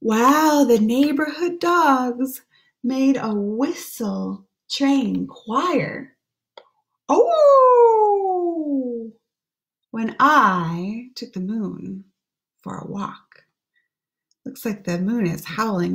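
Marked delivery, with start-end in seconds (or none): 0.0-6.2 put-on hushed, lilting read-aloud for children; gentle storybook voice; story reading. Reads the rhyming book aloud. 7.1-9.1 high, louder gasp of delight; a bright surprised exclamation. Acted. Exclaims while reading to kids. 9.9-13.4 put-on hushed, lilting read-aloud for children; gentle storybook voice; story reading. Reads the rhyming book aloud.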